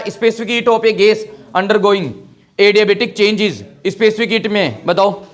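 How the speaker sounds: slow question reading. Shown as a demonstration. Teacher reading a question slowly to the class.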